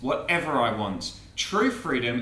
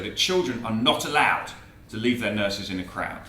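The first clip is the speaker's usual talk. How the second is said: measured comic verse recitation, a little lower; poem recital; 7 semitones lower than usual. Acted. Preacher reciting a beloved poem to the congregation, measured verse. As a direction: recite a cautionary rhyme with relish.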